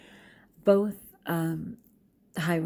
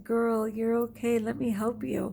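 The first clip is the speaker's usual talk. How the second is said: higher-pitched, reassuring call; imitated calling; 5 semitones higher than usual. Teacher calling to a scared girl, offering help, imitated calling. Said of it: "I just kept calling and saying".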